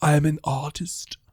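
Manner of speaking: put-on German accent. Voicing a moon elf in the style of Val Kilmer's German artist: Val Kilmer's German artist voice. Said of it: "Val Kilmer doing his German guy artist".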